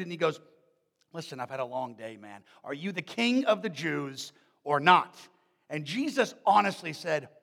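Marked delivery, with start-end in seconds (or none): 1.1-5.2 fast, exasperated, done with it; a weary official losing patience; frustrated Pilate. Retold or imitated. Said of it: "Pilate's getting kind of frustrated".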